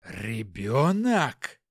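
slow, low, drawn-out quaver of rage; barely holding back fury; voice trembling with anger. Acted. Hopkin sees the baby, voice shaking with anger. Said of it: "Голос Хопкина от гнева дребезжал".

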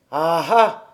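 put-on low, surly old man's voice; gruff old man. A narrator's reading. Old man asks Dete why the child came, low and surly. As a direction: grumble like a hermit disturbed. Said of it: "jetant un regard perçant".

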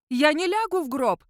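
high shriek of refusal; shrieking king. A narrator's reading. The king shrieks at Sandru, high-pitched. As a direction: screech it in panic. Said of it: "завизжал король".

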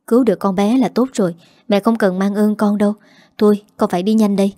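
fast, brisk reassurance; rushing off to give blood, speaking fast; speaking quickly. Acted. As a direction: hurry through it, no time to lose. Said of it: "chỉ nói nhanh".

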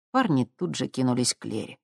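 ordinary delivery, nothing marked

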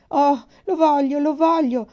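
put-on high, loud, slow child's begging; a little girl begging with all her heart; pleading. A narrator's reading. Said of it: "supplicò Laura". (supplica infantile, acuta e forte)

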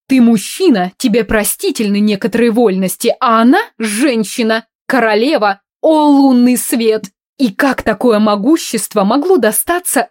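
loud, high indignant aristocrat; haughty countess. Acted. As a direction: rant like an offended noblewoman. Countess ranting loudly.

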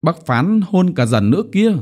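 put-on high-pitched pleading little child; childish wheedling. A narrator's reading. Boy begging uncle for a kiss too, high wheedling voice. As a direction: coax like a pouting, spoilt little one. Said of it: "đứng cạnh bác phán mà làm nũng".

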